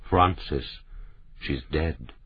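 quiet, patient and level; calm patience, softly spoken; patiently telling a friend the truth. A narrator's reading. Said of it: "He said patiently".

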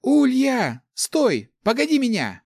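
high, loud shout after a friend; loud call. A narrator's reading. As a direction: call out to stop someone walking off. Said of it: "она громко крикнула".

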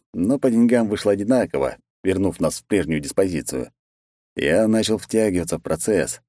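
ordinary delivery

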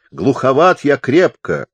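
high, slow shout of a deaf man. A narrator's reading. Deaf chaplain explains his bad hearing to the visitor, shouting. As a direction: holler it out, drawing the words out. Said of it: "заорал капеллан".

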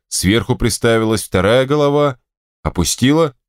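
ordinary delivery

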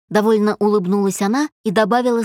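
plain reading voice

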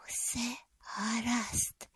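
slow breathy whisper to herself; calming herself, barely voiced and slow; inner whisper. A narrator's reading. Penny silently reassuring herself, in a slow whisper. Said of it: "повторюю я подумки".

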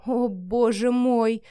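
slow, stretched-out cry of pleasure; a long, slow mock wail; drawn-out wail. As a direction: draw every vowel out long. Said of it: "протяжно завыла Вика".

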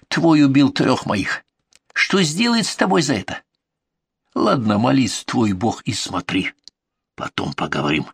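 put-on hateful broken Russian with highlander accent; venomous Caucasian accent. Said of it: "сверкнули ядовитой ненавистью".

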